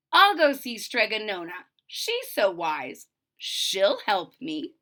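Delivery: slow, dreamy resolve; lightly voiced hopeful girl; hopeful daughter. Daughter deciding to seek the witch, slow and hopeful.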